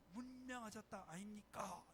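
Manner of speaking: 문명하셨다 아닙니까 in a Gyeongsang dialect lilt with a long final 다. Retold or imitated. Gyeongsang dialect lightly imitated. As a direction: pastor mimics how Gyeongsang people say it. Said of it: "이렇게 하거든요".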